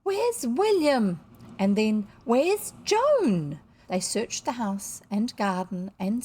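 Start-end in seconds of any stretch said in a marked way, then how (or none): 0.0-1.2 high, loud, drawn-out call; anxious cry. A narrator's reading. Party crowd calling for the missing boy, crying out. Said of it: "the cry that went up all round". 2.2-3.6 high, loud call; anxious cry. A narrator's reading. Party crowd calling for the missing girl, crying out. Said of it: "the cry that went up all round".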